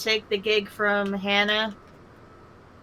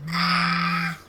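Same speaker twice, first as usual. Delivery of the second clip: laughing; 3 semitones lower, 5 dB louder than usual. Real, not acted. Laughing after shout.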